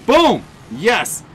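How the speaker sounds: loud, high burst of triumph; punchy gamer's victory call; excited cheer. Real, not acted. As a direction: celebrate the hit at full volume. Celebrates a hit in game.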